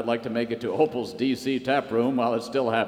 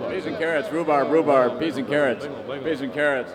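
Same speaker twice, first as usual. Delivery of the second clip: crowd murmur; 3 semitones higher, 5 dB louder than usual. Acted. Committee murmuring before meeting.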